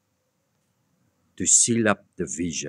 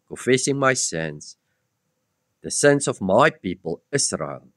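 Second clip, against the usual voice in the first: raised, declaiming Bible reading; scripture reading; 4 dB louder than usual. Acted. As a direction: proclaim the passage to the congregation. Reads Gabriel passage aloud.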